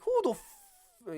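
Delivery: high, drawn-out Irish accent, cut short; Conor McGregor. Shown as a demonstration. Fight fan retrying the fighter's taunt, high slow Irish accent. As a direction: start a squawked Irish taunt and break off. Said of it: "my Conor McGregor accent".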